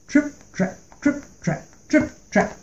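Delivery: high, very soft trip trap; whispered hoof steps. A narrator's reading. Middle goat sneaking over the bridge, high and whispered. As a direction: breathe the steps almost silently.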